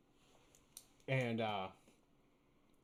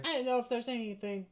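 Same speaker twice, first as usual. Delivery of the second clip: high goblin voice; 10 semitones higher, 5 dB louder than usual. Acted. Goblin shopkeeper talking.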